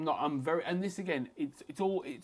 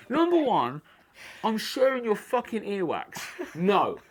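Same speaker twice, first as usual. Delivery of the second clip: higher and louder, mock fury; mock angry rant; 5 semitones higher, 5 dB louder than usual. Fighter retelling his rage at earbud-sharing couple, mock angry rant. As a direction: rant like you're seething on the tube. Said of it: "it made me so mad".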